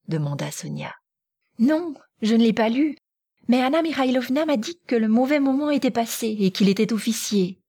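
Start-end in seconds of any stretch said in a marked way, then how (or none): 1.6-7.6 put-on higher-pitched, eager girl; animation de jeune fille. A narrator's reading. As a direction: reassure a friend eagerly, voice raised in pitch. Natacha rassure Sonia avec animation. (jeune fille animée, voix plus aiguë)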